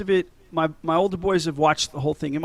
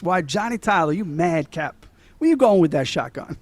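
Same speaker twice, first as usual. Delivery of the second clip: put-on amateur Southern accent, hollered only mildly; bad Southern accent. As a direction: try a movie gunslinger's Southern accent, badly. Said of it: "my Southern accent's worse than his".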